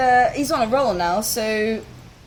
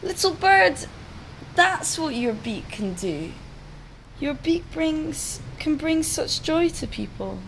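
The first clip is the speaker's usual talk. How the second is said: calling after; 5 semitones higher than usual. Acted. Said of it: "he shouts after the little bird".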